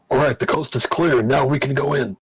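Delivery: lightly growled monster voice; a hint of a gruff bugbear. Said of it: "In, like, a bugbear voice".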